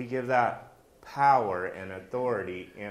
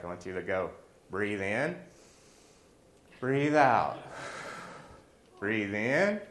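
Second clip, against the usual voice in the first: breathing demo. Shown as a demonstration. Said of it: "And I showed him how to do it".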